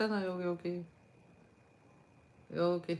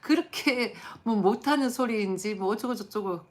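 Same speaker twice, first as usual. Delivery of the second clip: mock wide-eyed wonder, much higher and louder; amazed exclamation; 7 semitones higher, 8 dB louder than usual. Imitating a viewer who gushes loudly, much higher and louder, in mock amazement. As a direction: gush over the cello like a gawking fan. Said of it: "어떤 사람 노골적으로 그래".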